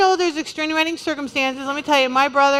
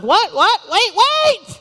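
much higher and louder, alarmed calls; mock panic; 9 semitones higher, 5 dB louder, slower than usual. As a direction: play someone chasing the plate in alarm. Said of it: "others who are like".

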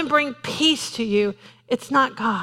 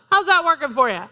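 higher, pointed Doctor Phil line; 4 semitones higher, faster than usual. Retold or imitated. Preacher quoting Doctor Phil to the congregation, pointed. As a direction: needle them like Doctor Phil. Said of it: "like Doctor Phil says".

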